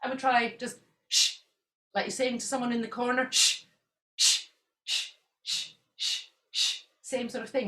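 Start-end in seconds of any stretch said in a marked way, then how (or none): 3.3-6.8 short sharp shushing bursts; staccato shh. Shown as a demonstration. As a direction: bounce out strong shh sounds. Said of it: "It's staccato, it's strong".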